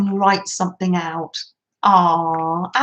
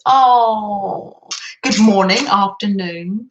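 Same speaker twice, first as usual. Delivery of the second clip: tearful; 2 semitones lower, much slower than usual. Real, not acted. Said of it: "making me feel emotional".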